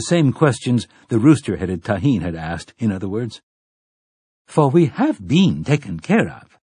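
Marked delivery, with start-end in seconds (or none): 4.5-6.6 high, loud and declaiming; ringing tones. Acted. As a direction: proclaim it like a haughty matron. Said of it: "said Grace Rumbelow in ringing tones".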